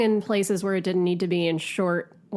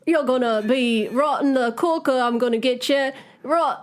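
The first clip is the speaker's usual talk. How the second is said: mock British riff; 4 semitones higher than usual. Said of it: "I'm trying to riff here".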